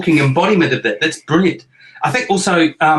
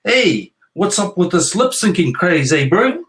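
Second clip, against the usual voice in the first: higher, thick Kiwi bro accent on "Hey, what's up with this lip syncing craze, eh, bro?"; broad New Zealand accent; 6 semitones higher than usual. Shown as a demonstration. Dad showing viewers the New Zealand way, broad Kiwi accent. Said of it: "Or as we say here in New Zealand".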